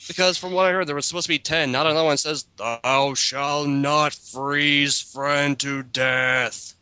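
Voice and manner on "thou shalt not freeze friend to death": mock commandment. Mock commandment read solemnly.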